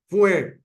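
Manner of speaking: "Fue" punched out high and loud; stress on first syllable. Shown as a demonstration. Teacher isolating the first accent of the verse, "Fue" stressed high. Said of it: "primer acento".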